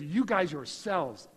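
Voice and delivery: "You guys yourselves", slow and weighty; drawn-out, emphatic "You guys yourselves"; powerful, pointed emphasis. Retold or imitated. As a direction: punch "yourselves" as if singling them out. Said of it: "pointing at them very, very powerfully".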